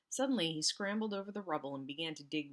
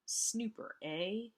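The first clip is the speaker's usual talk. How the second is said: sneer; 6 semitones higher, much slower than usual. A narrator's reading. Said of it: "he sneered".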